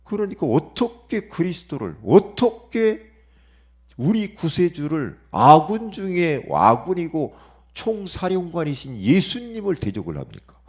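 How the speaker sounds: fervent preaching. Real, not acted. Preacher asking how anyone could oppose Jesus, loud and fervent. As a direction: cry it out to the congregation.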